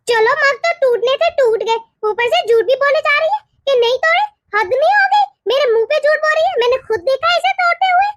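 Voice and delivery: acted outrage, pitch jumping up; scandalised mother-in-law's rant; indignant accusation. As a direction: complain crossly, rising as the outrage builds. Mother-in-law rants about a lie.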